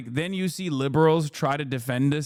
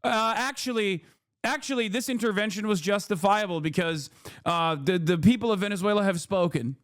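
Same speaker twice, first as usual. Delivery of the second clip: whiny mock liberal; 5 semitones higher than usual. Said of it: "liberals would still be like".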